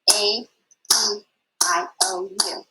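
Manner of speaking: each vowel said apart, one per clap; clapped vowels. Shown as a demonstration. Teacher leading the class again, clapping vowels. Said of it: "Let's do it one more time".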